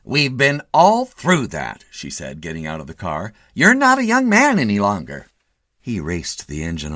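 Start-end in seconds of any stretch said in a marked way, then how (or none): 0.0-1.8 higher, louder slow nagging wife; fussing wife. A narrator's reading. Wife impatient. 3.5-5.3 fussing wife. A narrator's reading. Wife lectures.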